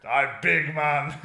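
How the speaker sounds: slow, puffed-up hard man voice; tough guy impression. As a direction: play the big man, drawn out. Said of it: "That's literally you".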